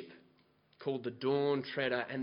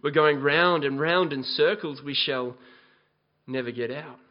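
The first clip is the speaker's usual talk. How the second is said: louder, mild panicked complaint from the crew; panicked rowers; 8 dB louder than usual. A narrator's reading. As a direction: rowers shouting, half in earnest. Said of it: "moaned the rowers".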